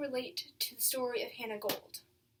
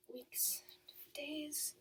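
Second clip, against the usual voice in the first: soft, halting words to herself; unsure murmur; 3 semitones higher, 10 dB quieter than usual. Acted. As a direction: think it over quietly, one word at a time. Losing track of time, corrects herself.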